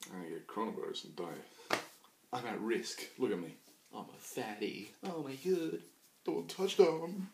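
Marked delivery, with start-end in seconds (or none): 2.3-7.3 mock high voice. Mocking an offended person.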